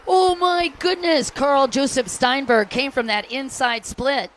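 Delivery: loud, high burst of amazement; excited race call. Real, not acted. Announcer calling a sudden pass for the crowd, excited shout. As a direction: erupt at the surprise overtake, high and loud.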